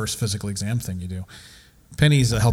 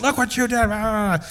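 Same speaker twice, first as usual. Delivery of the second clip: high sharp mock scolding; scolding dog; 12 semitones higher than usual. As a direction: scold the puppy, pitched up. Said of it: "I said".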